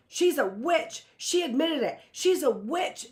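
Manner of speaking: high, loud screech. A narrator's reading. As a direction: screech it at the room. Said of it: "Judith screeched".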